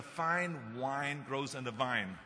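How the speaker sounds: "fine wine grows on the vine", slow and deliberate; diction drill. Shown as a demonstration. Speaker shows why Germans struggle with F, W, V, slow diction drill. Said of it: "difficulties with the F and the W and the V".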